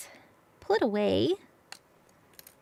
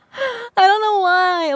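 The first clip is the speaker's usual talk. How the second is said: words stretched through a yawn; 8 semitones higher, 7 dB louder than usual. Real, not acted. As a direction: talk mid-yawn. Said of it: "I keep yawning".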